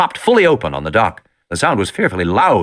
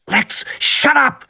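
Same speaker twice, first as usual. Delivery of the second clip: higher, slow urgent hush at his sister; sharp higher hush; hissed at sister; much slower than usual. A narrator's reading. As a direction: shut her up, slowly and urgently. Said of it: "Tim said".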